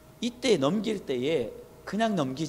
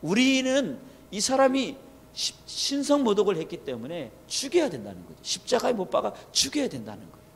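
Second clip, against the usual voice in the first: raised pitch, imitating an insistent crowd; retold forceful demand; 4 semitones higher than usual. Crowd demanding death for blasphemy, mildly forceful retold outcry. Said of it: "이들의 이 외침과 이들이 이 강력하게".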